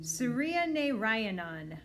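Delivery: Suryanarayanan said slowly, syllable by syllable; slow careful name. Acted. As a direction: spell it out with your voice, patiently. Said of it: "I say slowly".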